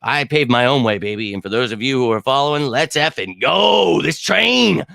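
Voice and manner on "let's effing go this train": slow, punched-out rallying shout; hyped shout. Real, not acted. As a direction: fire up the followers. Hype call to followers.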